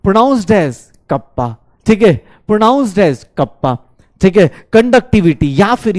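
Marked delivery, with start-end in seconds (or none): 0.1-1.6 कप्पा drawn out slowly, kap-pa; teacher repeating कप्पा slowly for students; slow pronunciation demo. Shown as a demonstration. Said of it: "अबे कटप्पा नहीं बोलना है". 2.5-3.8 कप्पा drawn out slowly, kap-pa; teacher repeating कप्पा slowly for students; slow pronunciation demo. Shown as a demonstration. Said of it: "अबे कटप्पा नहीं बोलना है".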